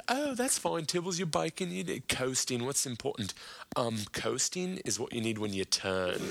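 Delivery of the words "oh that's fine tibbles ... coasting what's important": pitched-up breezy quote that settles back down; mock Russell voice. Russell brushing off the missing brakes, breezy high quote. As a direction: brush off a worry airily. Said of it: "And you're like".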